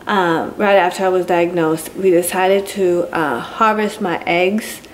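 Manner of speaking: slurred, swollen-tongue speech. Real, not acted. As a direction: talk around a swollen, drooling tongue. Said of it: "I'm drooling, because my tongue is so swollen".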